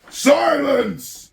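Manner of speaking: loud, high bark; barked command. Acted. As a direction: cut him off sharply. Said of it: "barked back".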